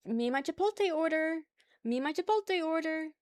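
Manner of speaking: bright sing-song trend voice; TikTok trend voice. Retold or imitated. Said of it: "people just, like, pulling up".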